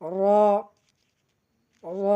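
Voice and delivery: র held long off the back of the tongue tip; Arabic ro. Shown as a demonstration. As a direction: sound a long, rounded র. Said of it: "জিহ্বার আগার পিঠ সামনের উপরে". (জিভের আগার পিঠ লাগিয়ে র)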